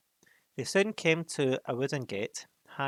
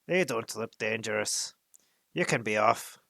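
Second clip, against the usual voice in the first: gruff giant; 5 dB louder than usual. Acted. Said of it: "he said to the horses".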